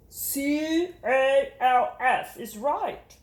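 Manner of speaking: very slow letters; slow spelling teacher. Acted. Teacher reading out the letters slowly. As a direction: spell each letter patiently.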